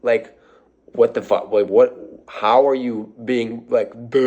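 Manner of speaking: baffled follower. Retold or imitated. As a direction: drop way down and play a confused fan. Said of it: "is like".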